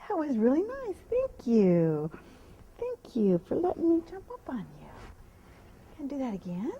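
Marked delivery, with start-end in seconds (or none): 1.1-4.9 hushed grateful whisper; whispered thanks. Real, not acted. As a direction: thank the mare under your breath.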